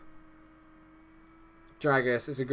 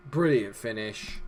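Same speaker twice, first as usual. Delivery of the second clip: ordinary talk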